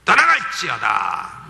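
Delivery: mild exorcist's command; commanding in Jesus' name. Retold or imitated. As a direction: cast the spirit out with authority. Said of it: "명령을 해요".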